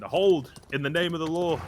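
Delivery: loud commanding shout of a guard; distant shout. Acted. Guard shouting at fleeing party to halt, loud command. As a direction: bellow it like a lawman calling a halt. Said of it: "someone shouting".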